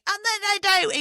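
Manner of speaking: bad Dick Van Dyke Cockney accent; high, hammy Cockney accent. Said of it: "in my horrible Dick Van Dyke version of my Cockney".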